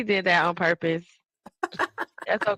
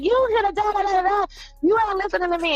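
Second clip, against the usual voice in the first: mock high-pitched fussing, higher throughout; a whiny, higher nagging voice; high fussing complaint; 11 semitones higher, faster than usual. Complaining to her tall boyfriend, higher-pitched fussing. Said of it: "And I just be fucking like".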